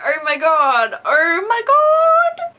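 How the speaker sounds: building to a high, loud, slow drawn-out cry; rising into a helpless laughing wail; laughing outburst. Real, not acted. Laughing at cheesy friends, a rising high cry. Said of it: "impossible for me to withhold my laughter".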